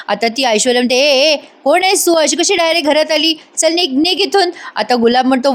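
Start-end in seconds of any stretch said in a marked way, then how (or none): 1.0-4.5 higher, scornful get-out; shooing away. Acted. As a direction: chase the intruder out of the house. Villain chases stranger out.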